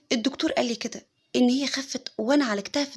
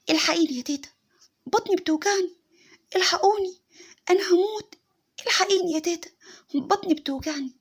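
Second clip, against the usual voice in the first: put-on much higher, pained child's wail; crying toddler; 6 semitones higher than usual. Little boy crying to his grandmother about his stomach ache. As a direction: cry out for grandma in pain. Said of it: "وفضل يصرخ ويعيط".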